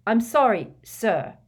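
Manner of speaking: "sir" set apart after a pause; pointed emphasis on "sir"; loud retort landing on "sir"; stress on last word. A narrator's reading. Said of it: "emphasizing the last word".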